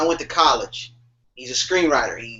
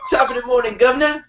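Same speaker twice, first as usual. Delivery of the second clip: a higher mock British accent through laughter; 8 semitones higher than usual. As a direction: ham up a posh British greeting. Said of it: "You put an accent on".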